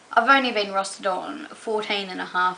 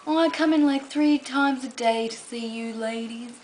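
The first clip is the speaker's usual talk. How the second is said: lightly voiced old man; 2 semitones higher than usual. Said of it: "he's like".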